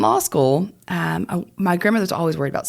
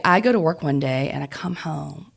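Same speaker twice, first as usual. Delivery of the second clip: ordinary talk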